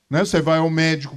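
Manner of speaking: ordinary talk, nothing marked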